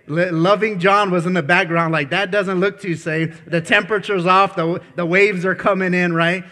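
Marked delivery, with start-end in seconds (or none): 2.1-6.1 worry wart. Retold or imitated. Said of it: "he seems like a little bit of a worry wart".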